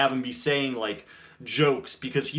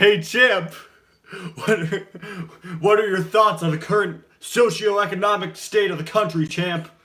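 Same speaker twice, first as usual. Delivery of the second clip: put-on arrogant voice; 6 semitones higher, 6 dB louder than usual. Doing a bit addressing someone as champ, imitating Jackson Storm's arrogance. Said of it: "he talks in such an arrogant way".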